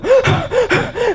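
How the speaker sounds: high, startled gasp as if facing a bear; sharp panicked gasp. Shown as a demonstration. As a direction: gasp in fake fright at a sudden lion. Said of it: "무슨 호흡 해야 돼?". (곰을 본 듯 놀라 헉 들이쉬는 소리)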